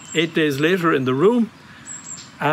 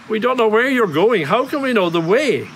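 exasperated objection; 5 semitones higher than usual. Retold or imitated. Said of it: "Catch yourself on".

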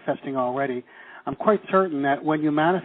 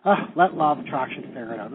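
relaxed letting go; 3 semitones lower than usual. Shown as a demonstration. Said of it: "you can even see my hand kind of pushing down".

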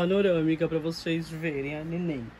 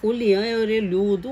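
critic's voice; 3 semitones higher, 3 dB louder than usual. Retold or imitated. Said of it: "Tem gente que fala assim".

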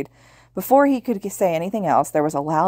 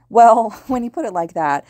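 laughing; 6 semitones higher, 6 dB louder than usual. Acted. Laughing reply in chat banter.

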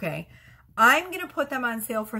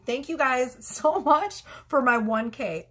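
thanks broken by a giddy laugh, higher and slowed; 5 semitones higher, slower than usual. Real, not acted. Vlogger thanking her viewers for one K, laughing. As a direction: laugh through the gratitude.

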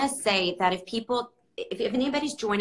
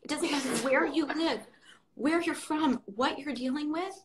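higher, softened, close to tears; real tearful voice; 4 semitones higher than usual. Real, not acted. Host moved by a quote about life being hard, tearful. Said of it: "I'm crying right now".

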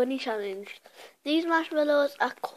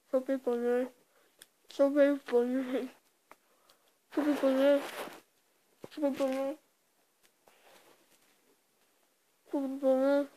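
cheeks stuffed full. Real, not acted. Chubby bunny, adding marshmallows each round.

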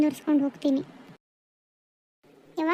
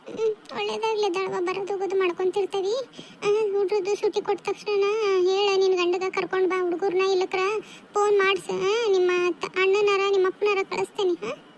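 lightly voiced elder, a bit higher; slightly raised pitch, reassuring family send-off; reassuring elder relative; 4 semitones higher than usual. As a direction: lightly play a relative blessing the departing daughter. Voices elder answering departing daughter.

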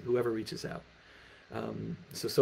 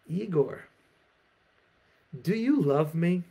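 put-on higher, slow, pleading drunk Russian peasant; drunk peasant asking; 6 semitones higher, 3 dB louder, slower than usual. Drunk Ivan asks his friend Igor, pleading and slow. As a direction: beg the question like a tipsy friend. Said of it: "one of them turns to his friend and says".

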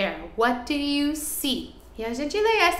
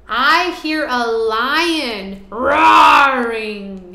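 louder and slow, lion-like; roaring lion; 7 dB louder, slower than usual. Acted. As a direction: growl it out like a lion. Reading lion line to children.

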